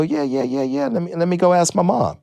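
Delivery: put-on eager kid. Young comic to his idol, high eager acceptance. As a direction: re-enact a youngster jumping at it.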